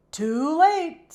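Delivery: loud high excited burst. Acted. Coco telling Kate the calf is born, loud excited. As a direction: blurt it out excited.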